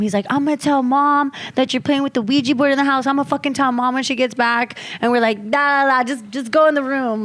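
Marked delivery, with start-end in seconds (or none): 0.3-4.8 higher-pitched imitation of an angry tattletale; mock-mad threat to tattle, pitched up; mad brother. Friend's brother threatening to tell Mom, mock mad. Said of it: "his brother was so mad". 5.5-7.2 higher-pitched retold brush-off; dismissive. Friends shooing the angry brother away, dismissive. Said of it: "Like, we didn't care".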